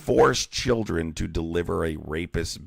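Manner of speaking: loud, forceful insistence; heated objection. Real, not acted. Host shouting down a caller over forcing children, angry. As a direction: lay it down hard and loud.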